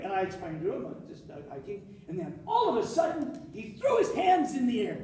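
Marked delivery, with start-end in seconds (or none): 0.9-1.9 innocent understatement. Retold or imitated. Explaining innocently to cop.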